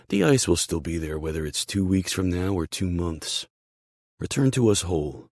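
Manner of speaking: emphatic, encouraging boss; team boss. Acted. Boss reassuring his injured player, firm and encouraging. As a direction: bolster him with firm, punched openings.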